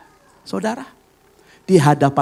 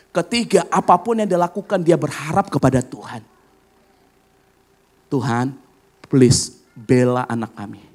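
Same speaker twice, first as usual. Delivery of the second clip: pleading prayer. Retold or imitated. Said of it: "gelar perkaranya seperti apa".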